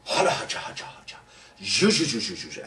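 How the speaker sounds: hushed spell chant, fading low; magic words. Acted. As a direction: mutter the magic words under the breath. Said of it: "we shall change them back again".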